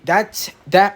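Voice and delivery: stuttering on a word; words catching and repeating. Real, not acted. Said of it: "Like, that just happened right there".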